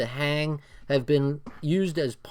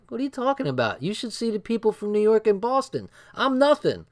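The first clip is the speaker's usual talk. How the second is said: retold protest; 7 semitones higher than usual. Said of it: "I'm like".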